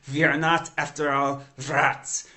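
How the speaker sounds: a hint of a Northern Italian accent, slightly vampiric; Northern Italian accent of Andrea Quaroni. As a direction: lightly mimic an old Northern Italian professor. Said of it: "beautiful sort of vampiric, uh, Northern Italian accent".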